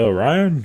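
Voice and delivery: "Ryan" in two syllables, RY-an; mispronounced name. Retold or imitated. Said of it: "people are like".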